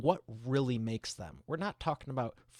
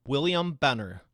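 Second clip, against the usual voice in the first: hyped name call; 4 semitones higher, 10 dB louder than usual. Acted. Loud hyped name introduction.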